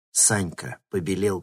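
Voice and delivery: plain reading voice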